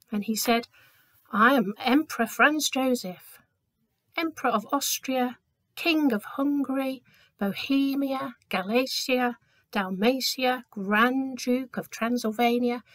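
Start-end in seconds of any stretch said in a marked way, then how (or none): 1.3-12.8 proud list of titles. Acted. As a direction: reel off every title with pomp. Servant lists all titles.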